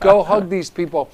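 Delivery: insistent coaxing of the dog. Retold or imitated. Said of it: "And I'm saying to myself, to this dog".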